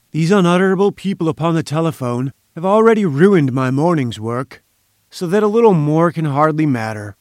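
scornful, forceful professor, lightly voiced; irascible professor. Busy scientist grudgingly granting an interview, mildly pompous and scornful. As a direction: declaim it with lofty impatience, lightly in character.

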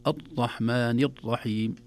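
الرحمن الرحيم with the ر held tight, no trill at all, slowly; stiff r. Shown as a demonstration. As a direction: clamp the ر of الرحمن without any roll. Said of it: "يشد عليه". (راء مشددة بلا تكرار في الرحمن الرحيم)

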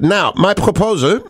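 mock German caller reading a letter; German accent. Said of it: "I'm allowed to do the German accent".

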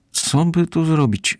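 high, slow worried question; mild worried sigh of a question. A narrator's reading. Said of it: "zmartwiła się Lola".

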